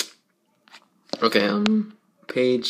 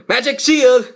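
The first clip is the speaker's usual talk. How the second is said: excited cry; 9 semitones higher, 3 dB louder than usual. Acted. Character casting a spell.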